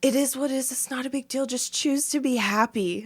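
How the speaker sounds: imitated placating husband. Husband urging furious wife to be happy, imitated placating. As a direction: keep reasoning gently, mimicking him.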